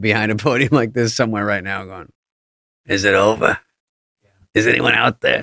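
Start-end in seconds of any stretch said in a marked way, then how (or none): 2.8-5.4 grouchy, sour, grumbling voice. Imitating someone standing behind a podium: grouchy Fauci voice. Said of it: "Grouchy Fauci".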